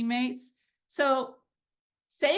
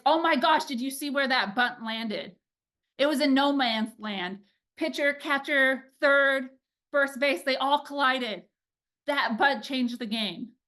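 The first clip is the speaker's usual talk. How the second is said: excited praise. Retold or imitated. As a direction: gush over a small win. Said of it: "being that excited about something small".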